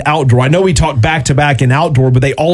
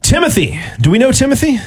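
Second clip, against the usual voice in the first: puzzled; 10 semitones higher than usual. Real, not acted. Host puzzled by unknown emailer.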